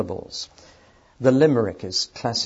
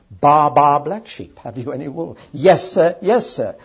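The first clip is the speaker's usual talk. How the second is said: punchy, higher nursery rhyme chant; nursery rhyme recitation; 4 semitones higher, 7 dB louder than usual. Shown as a demonstration. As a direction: bounce on the repeated words, raised voice. Recites nursery rhyme to show repetition.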